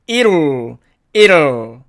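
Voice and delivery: "it'll" as "iru" with a flapped t; contracted it'll. Shown as a demonstration. Teacher modelling it will shortened, contracted. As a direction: turn the t of "it'll" into a quick tap. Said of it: "이렇게 발음이 되고요".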